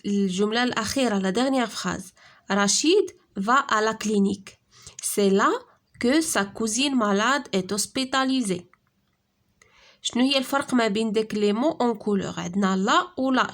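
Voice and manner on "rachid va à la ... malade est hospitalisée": each word read out slowly and clearly; slow dictation reading. Shown as a demonstration. Teacher reading the example sentence to pupils, slow and deliberate.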